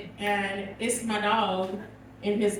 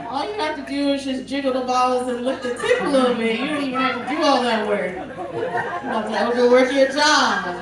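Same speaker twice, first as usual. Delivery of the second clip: coaching the puppy. Retold or imitated. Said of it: "And I was like".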